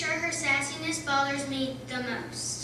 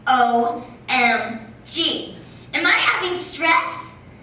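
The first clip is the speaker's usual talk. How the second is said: mock panic; 7 dB louder, much slower than usual. Mock panic about stress.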